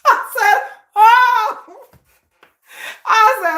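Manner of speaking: real laughter breaking through a startled oh; laughing. Real, not acted. Telling viewers about her husband, laughing and startled. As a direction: laugh out the oh, caught off guard.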